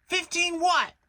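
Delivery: high, loud surprised What; jolted out of his thoughts; sharp high question; startled Rabbit. A narrator's reading. Rabbit puzzled.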